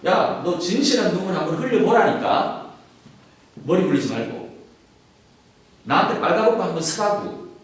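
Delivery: jabbing, teasing friend who wants tears; blunt pushy friend. Retold or imitated. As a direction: push him like a rough buddy. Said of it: "우리 전원식으로 하는 방식으로".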